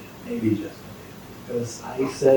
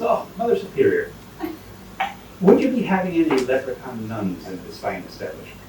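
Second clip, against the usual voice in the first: put-on Irish leprechaun accent. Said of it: "if I'm doing the Irish impersonation".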